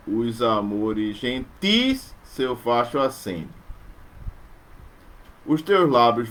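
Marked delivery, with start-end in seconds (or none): 0.1-3.5 slow, stressing "gentis"; slow verse reading stressing "gentis"; scansion reading. Shown as a demonstration. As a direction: hit the sixth syllable "gentis". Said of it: "acentuado na sexta".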